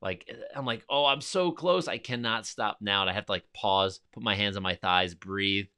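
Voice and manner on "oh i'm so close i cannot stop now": high, loud self-urging near the top; rally yourself, the finish is close; excited push. Retold or imitated. Gasping hiker at the summit urges himself on excitedly.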